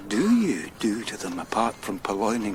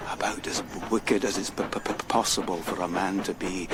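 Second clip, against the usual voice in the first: stammer; 4 semitones lower, 4 dB quieter, faster than usual. Acted. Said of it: "that stammer".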